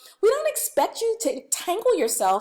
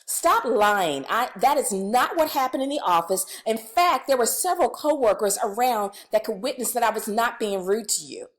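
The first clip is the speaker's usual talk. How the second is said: defensive accusation; 2 semitones lower than usual. Shown as a demonstration. Trainer shows the wrong, defensive reply to a student. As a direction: push back, sure you're right. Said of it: "Here's the wrong way of doing it".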